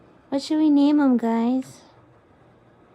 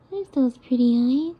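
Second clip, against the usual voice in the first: louder, happy coo; delighted coo; 2 semitones lower, 6 dB louder than usual. Real, not acted. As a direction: greet the eyes with delight. Delight repeated.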